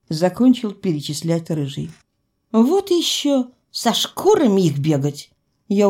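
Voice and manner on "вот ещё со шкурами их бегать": indignant huff, pitch dropping; scornful refusal. Acted. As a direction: scoff and dismiss the chore. Heroine scoffs at the chore.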